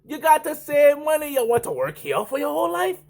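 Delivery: high, scolding mock Grenadian accent; botched Grenadian accent. Coworker warning about working forever, high mock Grenadian accent. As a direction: press the point in a bad Caribbean accent. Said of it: "He goes".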